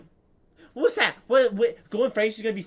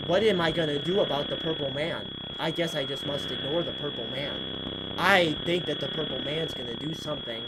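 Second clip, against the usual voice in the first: low, softer put-on voice; lightly voiced, dopey play-acting; mock worried character; 5 semitones lower, 5 dB quieter than usual. Player acts Foxy facing the Purple Man, low mock-character voice.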